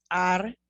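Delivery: Argentina with a breathy h for the G; Spanish Argentina. Shown as a demonstration. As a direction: Argentina as ar-hen-TEE-na, rising. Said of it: "Remember this pronunciation we went over?".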